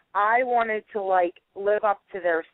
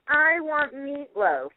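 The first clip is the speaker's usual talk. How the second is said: put-on whiny kid demand; 5 semitones higher, much slower than usual. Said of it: "he's kicking and stomping".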